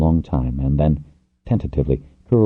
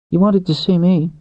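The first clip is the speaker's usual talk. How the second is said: man's character voice; 4 dB louder than usual. A narrator's reading. Pinch voiced.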